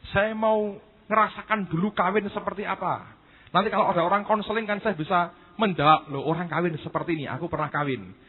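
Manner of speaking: high, pleading bargaining voice; Yusak bargaining. Retold or imitated. Young Yusak begging God to wait, high and pleading. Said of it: "Terus dia berkata".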